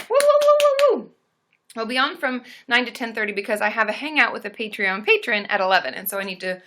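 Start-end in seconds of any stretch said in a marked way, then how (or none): 0.1-1.1 high, loud string of woos; long playful "woo-woo" cheer; celebratory whooping. Real, not acted. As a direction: whoop it up for the viewer. Cheering a viewer's donation.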